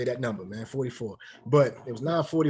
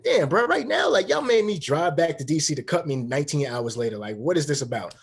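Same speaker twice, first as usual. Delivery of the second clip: retold exasperated protest; 3 semitones higher, 5 dB louder than usual. Player fearing a cut after driving back, exasperated.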